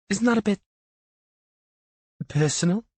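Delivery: high, rising disbelief; incredulous. A narrator's reading. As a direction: pitch it up in disbelief. Gina questions memorial room.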